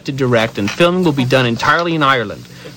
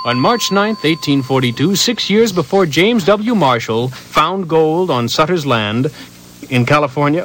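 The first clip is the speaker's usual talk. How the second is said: news announcement. Shown as a demonstration. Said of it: "make it sound like a news announcement".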